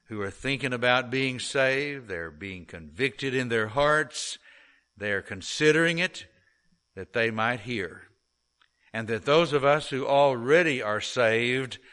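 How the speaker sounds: earnest, measured prayer voice; pastor's prayer. Acted. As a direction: pray it over the congregation, unhurried. Leads a prayer.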